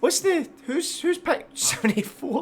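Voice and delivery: high, loud, startled outcry; surprised. Real, not acted. Shocked at chat guesses.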